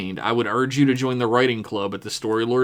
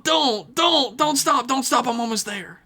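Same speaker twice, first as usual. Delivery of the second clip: very high, rapid-fire hammed-up urging; mock frantic begging; 13 semitones higher than usual. Reader hamming up the email's bawdy joke, high frantic begging. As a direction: beg in a squeaky, overdone frenzy.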